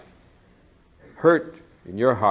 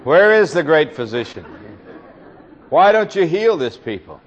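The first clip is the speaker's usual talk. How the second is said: louder, higher plea for healing; pleading cry; 5 semitones higher, 6 dB louder than usual. Retold or imitated. Preacher voicing a suffering believer crying to God: louder pleading. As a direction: call out to God for the one you love. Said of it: "And you cried out and said".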